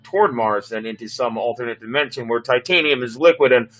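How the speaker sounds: a hint of a sheepish officer; lightly voiced sheepish pilot. Pilot excusing the bad jump to the captain, sheepish.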